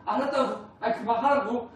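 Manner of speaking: laughing, mock-irritated brush-off; annoyed grown child. Grown child waving off a parent's "I love you", mock annoyed. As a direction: push the parent away with a laugh. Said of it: "이렇게 이제 반응을 막 하죠".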